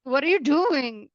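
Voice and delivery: exasperated. Retold or imitated. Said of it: "you're just like".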